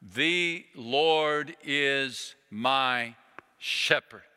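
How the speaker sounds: very slow, one word per finger; slow counted recitation. Retold or imitated. Chaplain has soldiers recite the psalm, slowly counting on fingers. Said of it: "ticking off one finger at a time".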